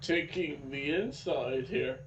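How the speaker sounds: talking through hiccups; words broken by hiccups; hiccuping. Real, not acted. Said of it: "I've been hiccuping".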